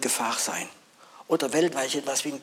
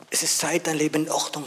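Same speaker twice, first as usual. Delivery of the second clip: rising call; 4 semitones higher than usual. Acted. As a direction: lift "Es ist Zeit" up and out. Preacher repeats the call.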